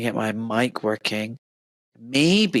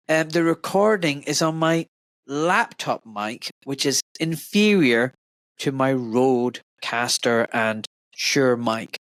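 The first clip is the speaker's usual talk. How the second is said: echoey laptop mic sound; roomy echo, far from the mic; big hall echo; slower than usual. Real, not acted. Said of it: "So I sound a bit echoey".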